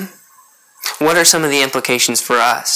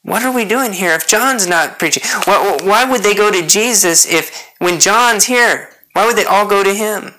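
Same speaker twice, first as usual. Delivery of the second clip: higher-pitched mock bafflement; acted put-out questioning, pitched up; indignant disciples; 5 semitones higher than usual. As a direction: imitate loyal followers protesting in disbelief. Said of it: "the way John's disciples are acting here".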